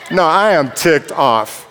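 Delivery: slow, laughing "no, I am ticked off"; laughing admission. Real, not acted. Preacher admits anger, slow and laughing. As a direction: own up through a laugh.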